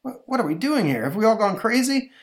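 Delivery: high-pitched, startled bystander; bewildered crowd member. Acted. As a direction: cry out as if coming to your senses. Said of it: "says a member of the crowd".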